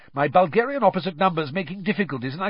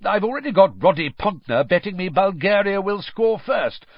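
high, enthusiastic patter; eager betting man, pitched up; 7 semitones higher than usual. A narrator's reading. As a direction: rattle off your bets with relish. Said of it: "he said eagerly".

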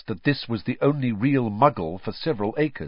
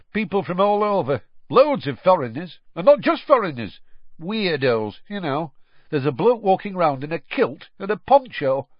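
higher, louder wondering chatter; gossiping countryman; 8 semitones higher, 5 dB louder than usual. A narrator's reading. Owner telling Mister Weasley about weirdos, louder and wondering. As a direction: marvel at the odd crowd. Roberts' voice.

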